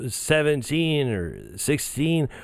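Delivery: put-on lightly slurred drunk ramble, laughing; half-hearted drunk impression with laughs. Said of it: "let me say it like a drunk instead of Joe Biden".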